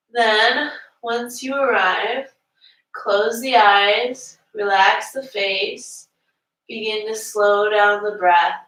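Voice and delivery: unhurried yoga teacher leading breathwork; yoga breathing guidance. Real, not acted. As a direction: guide the class gently into the breath. Guides the class into breathing.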